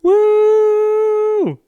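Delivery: loud, high celebratory whoop; excited whoop. Real, not acted. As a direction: cheer it out at the top of your voice. Celebrating ten thousand downloads.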